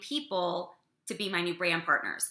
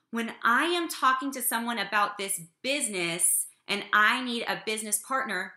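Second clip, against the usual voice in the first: put-on composed big girl voice; lowered business voice. Shown as a demonstration. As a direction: pitch brought down for business, with posture. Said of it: "notice the pitch in my voice went down".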